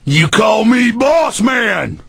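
slow shouted order; cop demand. Retold or imitated. Host in cop voice greeting a new caller, slow shout. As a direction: make the caller grovel. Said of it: "that's an imitation of 'em".

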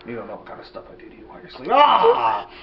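sinister puppet threat; creepy threat. Acted.

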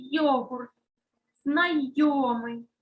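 знайомий stretched slowly so йо is heard clearly; slow dictation. Shown as a demonstration. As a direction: draw out знайомий for the class. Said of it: "Або ж слова із буквосполученням й, о".

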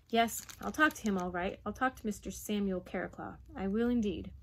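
measured maternal resolve; firm. Acted. Mother resolves to talk to father, firm. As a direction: state it decisively, without raising the voice. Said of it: "her voice sounded firm".

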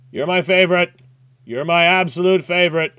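real joy; delighted gushing. Real, not acted. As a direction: gush like a fan. Gushing at the game.

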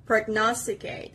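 "Prognosticate" stressed on "nos"; teacher's clear "Prognosticate", weight on "nos"; second-part stress. Shown as a demonstration. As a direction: model "Prognosticate" carefully, leaning on the second syllable. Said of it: "the stress is on the second part".

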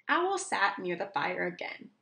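ordinary delivery

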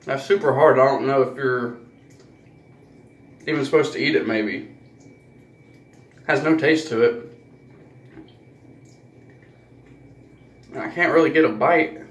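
candy between teeth; talking while gnawing candy; biting on hard candy. Real, not acted. Seen 1: Holds small hard candy, repeatedly brings it to teeth biting.

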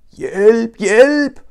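high, loud call from up a tree; shouting for help. Acted. Roo calls down from the treetop, high loud cry. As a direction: yell down for help. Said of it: "råbte den".

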